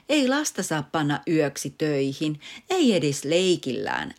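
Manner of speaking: gentle reproach, slowing at the end; mild scolding. Acted. Mother lightly scolding father over the joke. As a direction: tell him off lightly. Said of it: "äiti torui".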